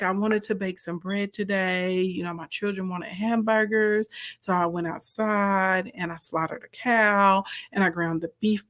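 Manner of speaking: calm, unhurried, flat delivery; Nara Smith monotone. Retold or imitated. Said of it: "Nara Smith has that monotone voice".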